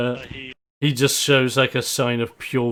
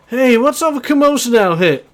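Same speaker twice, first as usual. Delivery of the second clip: cocky loud champ; 13 semitones higher, 7 dB louder than usual. Acted. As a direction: boom it out like a showman. Cocky champ greets them.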